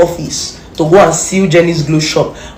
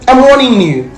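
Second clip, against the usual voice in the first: higher and louder, a firm threat; stern warning; 6 semitones higher, 3 dB louder than usual. Real, not acted. Threatening the blogger over Wunmi, stern raised warning. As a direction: lay down the warning hard.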